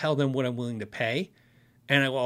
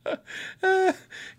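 high laugh. Real, not acted. Laughs after retailer's answer.

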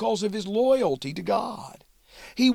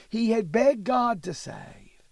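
whisper; 3 semitones higher than usual. Shown as a demonstration. Teacher repeats plea, first whispered.

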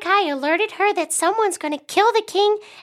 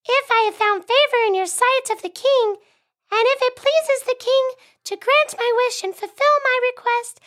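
lightly higher queen voice; Queen Esther; 4 semitones higher than usual. Acted. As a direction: plead gently as the queen. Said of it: "I'll play Esther since I already have a high voice".

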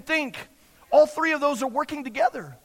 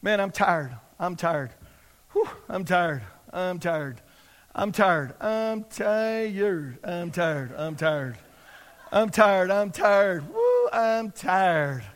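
mock-tired people, low and sighing; weary moaning; 6 semitones lower, slower than usual. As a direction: drone it wearily, imitating a chronic complainer. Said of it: "people sometimes that are, that are tired".

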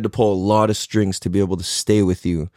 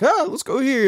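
carefree voice. Retold or imitated. Mimics own carefree self.

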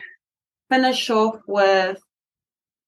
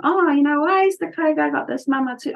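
curious customer; 5 semitones higher than usual. Pretend. Imagined customer asking question.

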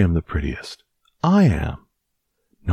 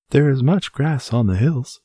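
put-on old man voice; 10 semitones higher, 3 dB louder than usual. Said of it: "said the very old man".

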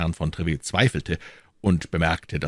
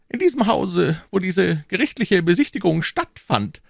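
high, even, unemotional cardinal; cardinal's cool voice, raised pitch; dispassionate cardinal; 13 semitones higher than usual. A narrator's reading. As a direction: lay it out without feeling.

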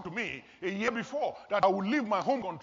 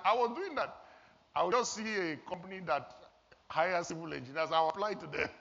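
laughing. Real, not acted. Laughing at own story.

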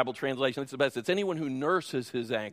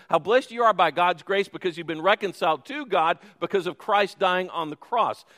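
louder, declaiming the blessing; rising proclamation; 5 dB louder than usual. Real, not acted. Preacher proclaiming to the congregation, louder and fervent. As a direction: build it out to the whole room.

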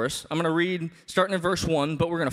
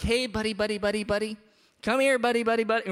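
higher, sing-song coaxing call of buddy; mock coaxing; 4 semitones higher than usual. Parent mockingly coaxing a toddler out of the street, sing-song call. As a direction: coax a toddler back like calling a chicken. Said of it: "coaxing your kid like it's a chicken".

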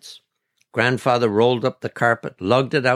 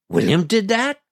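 higher, rising question of disbelief; shocked; 9 semitones higher than usual. A narrator's reading. Grandfather learning what his goat did, shocked. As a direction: ask it in shocked disbelief, pitch climbing. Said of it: "Grandfather was shocked".

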